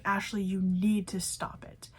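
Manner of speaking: slow, measured telling-off; firm warning, retold. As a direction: imitate a manager laying down the law. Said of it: "looked at her very firmly".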